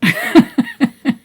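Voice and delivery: high, loud burst of laughter; laughing. Real, not acted. Joking about staff on sale.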